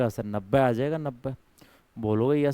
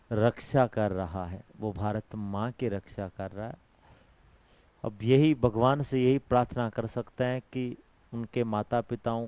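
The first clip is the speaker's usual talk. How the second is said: solemn tribute; 4 semitones lower, 6 dB quieter than usual. Real, not acted. Tribute to a fallen soldier.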